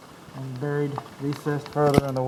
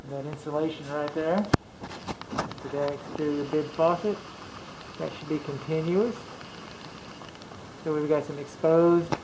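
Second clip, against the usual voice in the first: speaking through a face mask; muffled by a mask; 3 dB quieter than usual. Real, not acted. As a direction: talk muffled behind a mask. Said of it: "Sorry for the muffled sound, I'm wearing a mask".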